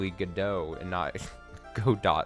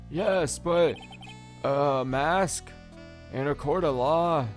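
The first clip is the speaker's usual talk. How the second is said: higher and louder judge; 6 semitones higher, 4 dB louder, slower than usual. Acted. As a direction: object like a puzzled judge. Judge questioning.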